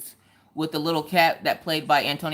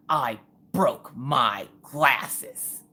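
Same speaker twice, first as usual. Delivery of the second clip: daughter's glum report; 3 semitones lower, much slower than usual. Retold or imitated. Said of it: "she's like".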